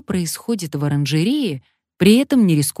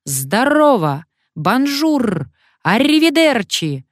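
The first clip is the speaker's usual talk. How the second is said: loud parrot squawks climbing higher; parrot barking; 8 semitones higher, 5 dB louder, slower than usual. A narrator's reading. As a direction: show off every greeting it knows. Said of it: "гаркнул попугай".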